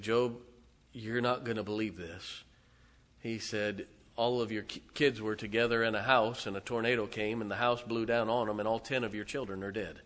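understated sobbing report; mild weeping. Acted. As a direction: break the news with a touch of tears. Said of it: "came in weeping and sobbing".

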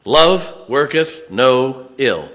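weighty, drawn-out verse read loud; loud, slow scripture reading. Acted. Preacher slowly reading love fulfils the law, loud. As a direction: lay each word down slowly and loud.

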